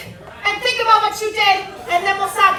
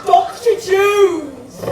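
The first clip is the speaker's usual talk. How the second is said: menacing villain; 4 dB louder, much slower than usual. Acted. Villain greeting, slow.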